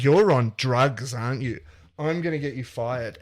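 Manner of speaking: a mildly acted angry telling-off; angry scolding. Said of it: "she's super angry".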